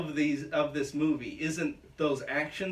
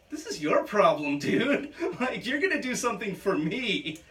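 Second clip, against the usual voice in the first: laughing; 5 semitones higher than usual. Retold or imitated. Retelling a scene, laughing.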